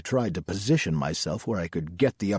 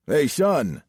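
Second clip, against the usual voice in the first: higher, louder Southern sheriff's call; 5 semitones higher, 5 dB louder than usual. A narrator's reading. Sheriff to young driver as something catches his eye, calling out. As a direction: call out to get his attention. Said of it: "he called out".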